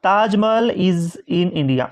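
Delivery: slow dictation pace; slow example reading. Shown as a demonstration. Teacher reading the Taj Mahal example slowly. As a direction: read the sentence slowly. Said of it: "अब ताजमहल तो एक ही है".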